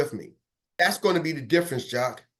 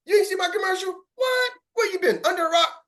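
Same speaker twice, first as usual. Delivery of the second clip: much higher, playful disbelief; mock astonishment; 12 semitones higher than usual. Shown as a demonstration. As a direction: tease him for missing the ad. Mock astonishment in the sales pitch.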